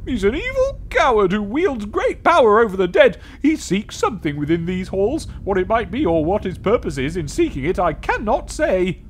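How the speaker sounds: ghostly warning. Acted. Ghost describes the coward.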